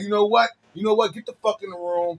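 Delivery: high, heated imitation of tough love; mock scolding love. Imitating friend ordering someone to their room, high, scolding. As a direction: order them about with urgent affection. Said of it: "And you be like".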